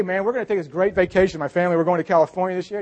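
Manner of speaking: excited retold brag; mock boast. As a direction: show off to a friend. Acting out a teenager's vacation boast.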